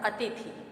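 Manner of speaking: अतिथि with long i's, "ateethee"; mispronunciation. Shown as a demonstration. Teacher introducing the third word, long-vowel mispronunciation. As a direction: say अतिथि wrongly as "a-tee-thee". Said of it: "अशुद्ध है".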